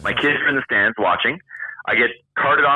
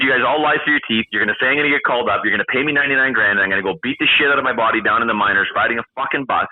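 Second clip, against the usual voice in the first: rapid-fire exasperated objection; retold tirade at quick pace, mildly heated; retold rant; faster than usual. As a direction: reel off the grievances without stopping. Retold argument with team management.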